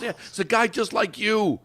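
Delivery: high-pitched excited retelling; high, animated quote of a fan; excited retold voice. Retelling excited caller's remark to him.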